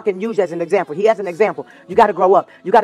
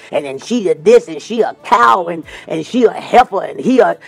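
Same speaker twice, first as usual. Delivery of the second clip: mock name-calling gossip; 4 semitones lower than usual.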